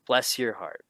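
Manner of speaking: genuine, kind wish; heartfelt blessing; sincere. Shown as a demonstration. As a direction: say it as a real compliment. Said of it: "could be a genuine compliment".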